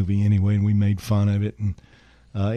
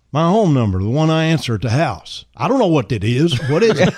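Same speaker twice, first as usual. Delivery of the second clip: excited; 5 semitones higher, 6 dB louder than usual. Retold or imitated. Elvis and Charlie voiced, excited.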